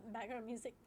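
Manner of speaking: words breaking into real tears; choking up as the sentence ends; real crying that breaks through the words; bursting into tears. Real, not acted. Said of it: "I'm sorry for bursting into tears".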